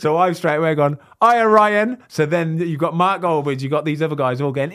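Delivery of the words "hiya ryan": excited greeting. Retold or imitated. Greeting Ryan Reynolds on phone.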